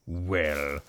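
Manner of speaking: donkey voice. Acted. Donkey speaks in the story.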